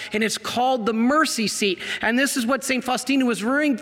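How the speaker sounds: normal talking voice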